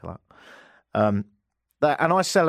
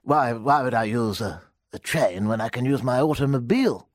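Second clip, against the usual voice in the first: posh English; 3 semitones lower than usual. Retold or imitated. British comedian doing a posh English toff. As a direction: put on a plummy English accent to mock drivers. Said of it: "Let me do a posh version instead".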